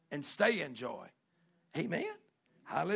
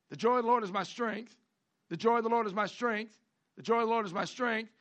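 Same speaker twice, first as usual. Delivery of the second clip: proclaimed verse; 4 semitones higher than usual. Shown as a demonstration.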